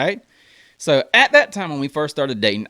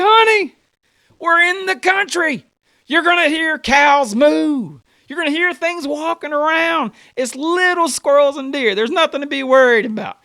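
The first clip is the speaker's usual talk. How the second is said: raised voice, stretching the key words; exasperated reassurance; 8 semitones higher, 4 dB louder than usual. Retold or imitated. Husband reassuring his wife about country noises, exasperated.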